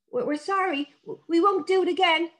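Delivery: put-on stammering children apologising; sheepish sorry. A narrator's reading. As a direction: kids caught apologising to Dad. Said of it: "said the children".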